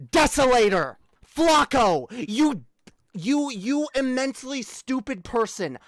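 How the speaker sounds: loud, biting name-calling; calling him out in anger; angry call-out. Real, not acted. Calling out the troll angrily.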